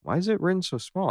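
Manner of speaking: high, quick puzzled whine; high squeaky complaint. Acted. Squinting at tiny print.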